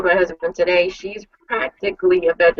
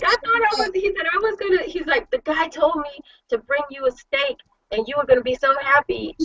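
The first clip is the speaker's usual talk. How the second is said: a hint of sheepish husband; 9 semitones higher, 4 dB quieter, faster than usual. Husband's excuse voiced, laughing.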